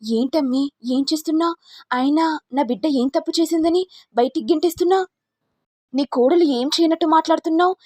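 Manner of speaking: indignant mother. Acted. Kanchana confronting Anand Bhairavi for her daughter, high and angry. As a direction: storm in defending her girl.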